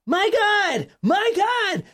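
put-on a mother screaming that a dingo took her baby; frantic cry. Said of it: "she cries out".

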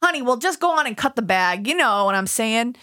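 friend asked to read it New York style, New York accent. Shown as a demonstration. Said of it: "read it in your New York accent".

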